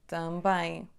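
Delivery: também joined, one bilabial B; model word. Shown as a demonstration. Teacher giving the joined model word. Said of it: "Há só um som bilabial aqui".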